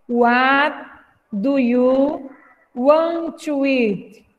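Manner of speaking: phrase by phrase, slowly; slow, chunked teacher read; chunked slow model. Shown as a demonstration. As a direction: break it into chunks for repeating. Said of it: "pra repetir aí em casa".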